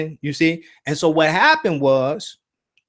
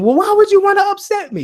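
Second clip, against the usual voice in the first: indignant question; 5 dB louder, faster than usual. Retold or imitated. Confronting Shaq in the dream.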